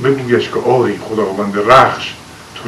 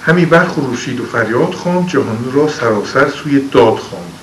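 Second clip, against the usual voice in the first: poem recitation. Acted. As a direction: recite it like old epic poetry. Recites Shahnameh verse. (خوانش حماسی شعر)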